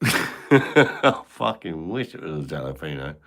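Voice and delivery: giggling at his own joke; laughing. Real, not acted. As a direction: let the laugh spill into the line. Repeats the line laughing.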